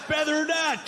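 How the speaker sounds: hammed-up quizmaster; quiz host shout. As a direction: snap it like a buzzer question.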